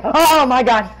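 high, loud fearful cry; startled shout. Real, not acted. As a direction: yelp in fright.

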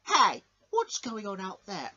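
loud, slow shout from afar; booming call. Acted. George calls out at the fight, slow booming shout. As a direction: bellow to stop the ruckus. Director hears commotion.

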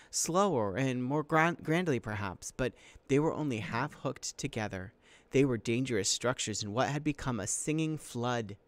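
animated read-aloud to students; story narration. A narrator's reading. Teacher reads an adventure chapter to students, story narration.

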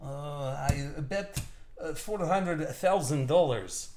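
light mock Russian accent, slowed a little; a hint of a Russian accent. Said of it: "Russian accent, too. Good Russian accent".

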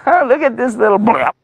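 high-pitched taunt breaking into a splutter; scoff, then get cut off mid-word; gloating giant knocked silent; mocking giant cut short. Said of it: "And he said".

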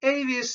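Avis with a long AY first vowel, "AY-vees"; British English pronunciation. Shown as a demonstration. Lecturer judging the English form pleasant enough, Avis said as AY-vees.

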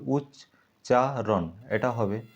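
উচ্চারণ broken slowly as উচ্চা-রণ; slow syllable split. Shown as a demonstration. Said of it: "না উচ্চা তারপর রণ হবে". (উচ্চারণ শব্দটি ধীরে দলে ভেঙে বলা)

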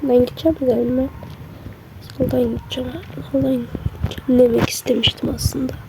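soft, hoarse sick voice. Real, not acted. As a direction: speak hoarsely through a sore throat. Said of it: "Birazcık sesim kısık olabilir çünkü birazcık hastayım".

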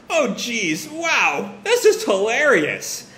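high, mock-hilarity exclamation; amused laughter. Mother laughing at her guest's apology, amused high voice. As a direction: act out being tickled, drawing out the last words. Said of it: "she just starts to laugh".

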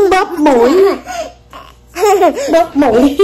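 giggling through the words; laughing while talking. Real, not acted. Mother laughing while saying it.

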